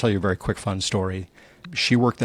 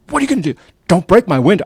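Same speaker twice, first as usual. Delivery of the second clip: panicked plea; 10 semitones higher, 12 dB louder, faster than usual. Retold or imitated. Quoting wife's panicked keys plea.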